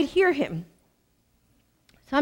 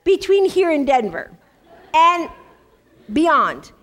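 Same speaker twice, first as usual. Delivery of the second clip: laughing through the words, pitch jumping up; 5 semitones higher, 4 dB louder than usual. Real, not acted. Preacher to the women, laughing at her own Starbucks habit. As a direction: chuckle it out as a joke on yourself. Joking about knowing every Starbucks.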